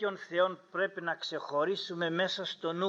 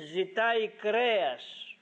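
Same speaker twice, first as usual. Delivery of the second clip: high, drawn-out complaint; imitating an exasperated leader; troubled complaint; 4 semitones higher, slower than usual. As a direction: stretch it out in acted dismay. Moses's troubled complaint to God.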